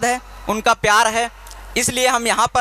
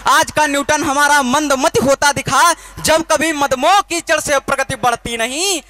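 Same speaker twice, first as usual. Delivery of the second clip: poem declamation. Acted. Poet reciting his revolutionary poem to the crowd, impassioned declamation.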